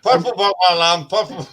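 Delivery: "Purple burglar alarm" rushed and slurred; fast tongue twister. Shown as a demonstration. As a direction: hurry through it and stumble. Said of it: "Same twice fast".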